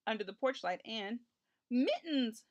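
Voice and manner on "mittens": louder, higher happy cry; joyful shout. A narrator's reading. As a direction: call out the name with delight. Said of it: "shouted Richard joyfully".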